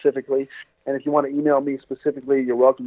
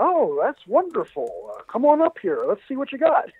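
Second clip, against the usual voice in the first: Rich Little voiced; 10 semitones higher than usual.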